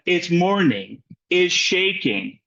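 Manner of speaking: "it's MORning", "is SHAking", slow with matching beats; parallel stress shown. Shown as a demonstration. Teacher pointing out parallel structures, slow matched stress on "is shaking". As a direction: say "is shaking" slowly in the same rhythm as "it's morning". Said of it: "identify some parallel structures".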